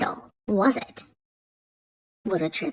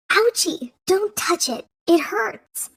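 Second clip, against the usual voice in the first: put-on high, whiny child cry of pain; child shouting; 7 semitones higher than usual. A narrator's reading. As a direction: wail it like a hurt little girl. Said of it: "Charlotte was shouting all the same".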